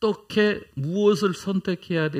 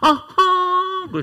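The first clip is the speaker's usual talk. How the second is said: nasal exclamation, much higher and louder; 12 semitones higher, 5 dB louder than usual. At a revival meeting, the speaker retells a seminar speaker's cry as a nasal 'aha!'. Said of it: "콧소리, 콧소리 잘하셔야 돼요".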